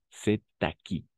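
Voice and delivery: "C'est à qui" as sé-ta-ki; linked with liaison. Shown as a demonstration. Teacher repeating for students, "C'est à qui" with the liaison. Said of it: "Con la liaison".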